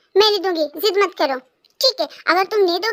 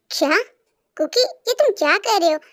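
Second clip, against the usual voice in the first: ordinary delivery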